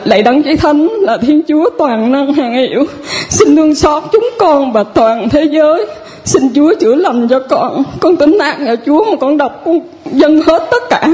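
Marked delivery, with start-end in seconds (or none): 0.0-7.8 prayer. Retold or imitated. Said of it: "con đọc là".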